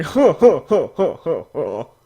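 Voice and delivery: "ho ho ho" laughed out, fading; mock laugh. Real, not acted. Reviewer laughing at forgetting the brief backstory, fading laugh.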